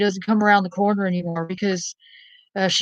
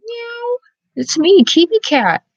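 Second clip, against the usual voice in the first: cat voice; 13 semitones higher, 5 dB louder, slower than usual. Pretend. The cat greeting the viewers in a high squeaky voice. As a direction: play the cat introducing itself. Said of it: "The cat going".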